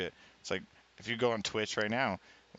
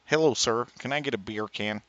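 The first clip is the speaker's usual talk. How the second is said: a light, hammed-up Jamaican accent, only partly held; jokey customer ordering in a put-on Jamaican accent; a hint of Jamaican accent, mostly his own voice; mock Jamaican accent; 4 dB louder than usual. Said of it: "this is my best Jamaican accent".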